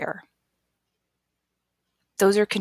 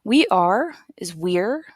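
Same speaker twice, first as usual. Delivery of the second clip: slow, careful "We are is we're"; slow model; slower than usual. Shown as a demonstration. Teacher slowly models "we're" for learners. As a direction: spell it out slowly for the class. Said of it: "Sounds like this".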